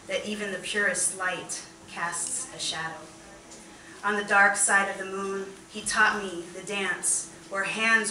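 measured recital, each refrain restarted firmly; poetry reading. Acted. Poet reads of dance learned from beloved, measured recital. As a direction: set out each line, easing down at the close.

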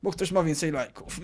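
lightly whiny, hurt complaint; mock whiny youtuber. Youtuber mocking himself complaining to viewers about likes, whiny. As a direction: play a touchy creator sulking over likes. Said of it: "bym się tak spiął, że".

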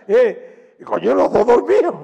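real laughter as he tells it; laughing. Real, not acted. Guitarist laughing at his own anecdote, laughing loudly.

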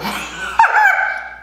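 shrieking high laugh; high squealing laugh. Real, not acted. Big laugh.

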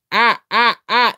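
mock kookaburra call. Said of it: "It starts out going".

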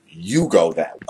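whining through fake tears; mock crying. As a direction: sulk off crying. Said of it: "a conversation with ourselves".

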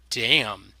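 ordinary delivery

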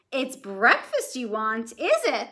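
put-on loom over the little boy; slow big tall woman voice; giant woman. A narrator's reading. Giantess speaks.

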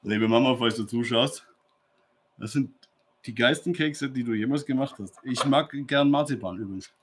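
chewing while talking; mouth full. Real, not acted. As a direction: talk through a mouthful. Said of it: "mit vollem Mund rede".

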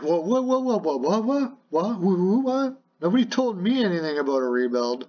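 hammed-up disbelief, then rushing the complaint; mock shocked player. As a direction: play the captain caught off guard. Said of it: "He was like".

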